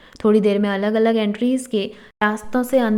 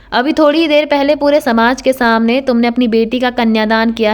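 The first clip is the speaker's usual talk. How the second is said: loud thundering warning; loud, booming threat; roaring groom; 5 dB louder than usual. Acted. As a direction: roar it at the bride's father as her new husband. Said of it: "गरजती हुई आवाज़ में कहा".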